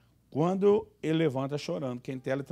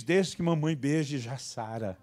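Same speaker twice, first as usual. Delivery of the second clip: soothing mother; 2 semitones lower, slower than usual. Retold or imitated. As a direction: coo it to the child. Wife voiced soothing son.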